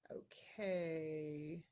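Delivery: breathy aside whisper, almost to herself; a private whispered okay. Real, not acted. Aside to herself before the next question, whispered.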